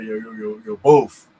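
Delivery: put-on New York street accent. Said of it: "in the street with certain Yankees".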